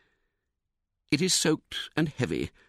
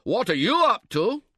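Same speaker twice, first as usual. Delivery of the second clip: higher, louder snappy comeback; sharp retort; 9 semitones higher, 4 dB louder than usual. A narrator's reading. Tentmate retorting across the tent, high and loud. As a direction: throw it right back at him. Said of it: "he retorts".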